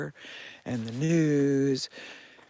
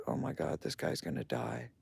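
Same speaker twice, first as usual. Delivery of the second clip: alarmed whisper; 8 dB quieter than usual. Retold or imitated. Alarmed thought about dying man.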